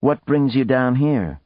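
a touch of forced affability; amiable. A narrator's reading. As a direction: ask amiably, hiding the anger. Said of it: "His tone was amiable".

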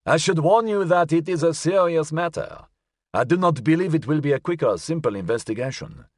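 high-voiced old gentleman; elderly man. A narrator's reading. Elderly client warning the detective of a serious matter, old voice. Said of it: "sounded as if it belonged to an elderly man".

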